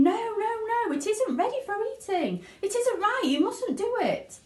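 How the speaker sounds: high, anxious pleading; fretful protest. Acted. Wonka frets as Violet keeps chewing, anxious. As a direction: beg her to stop, hands wringing. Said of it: "wringing his hands and saying".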